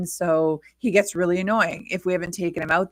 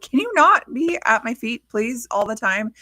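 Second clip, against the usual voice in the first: mock-pleading, higher-pitched protest; higher-pitched, put-upon begging; exasperated plea; 5 semitones higher, 3 dB louder than usual. Owner pleading with the dog underfoot, exasperated. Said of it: "And I'm like".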